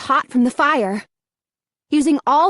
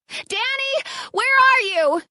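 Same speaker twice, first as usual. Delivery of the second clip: calling out; 11 semitones higher than usual. A narrator's reading. Calling through the fire.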